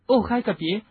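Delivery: high, moaning plea. A narrator's reading. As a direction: groan it out, pleading. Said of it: "赫敏呻吟着说".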